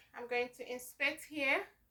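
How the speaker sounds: ordinary talk, nothing marked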